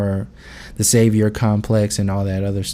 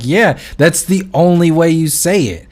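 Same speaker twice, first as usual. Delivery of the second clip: higher-pitched, retold firm comeback; firm retort; 6 semitones higher, 4 dB louder than usual. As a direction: set him straight, as her imagined reply. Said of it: "And her response is".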